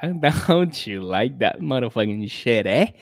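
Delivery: mock sultry English tease, slowed down on the last line; hammed-up seductive murmur into the mic; mock sexy. Podcast host teasing his listener in a mock sexy voice. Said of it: "c'est absolument très sexuel, la manière que je parle dans le micro".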